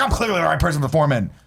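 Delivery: quick, cocky self-assurance; mock confident. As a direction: brag like you know you deserve it. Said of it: "I was like".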